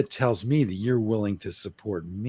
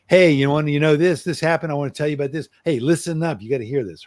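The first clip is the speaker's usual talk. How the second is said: loud, high barge-in with no asking; blasting in; 5 semitones higher, 3 dB louder than usual. Shown as a demonstration. To his partner, showing the wrong way: loud, pushy barge-in. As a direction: charge in loud and pushy, no permission. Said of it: "Don't just come blasting in there".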